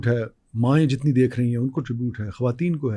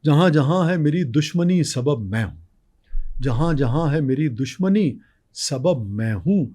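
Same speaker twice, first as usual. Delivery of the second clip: nazm recitation; slower than usual. Acted.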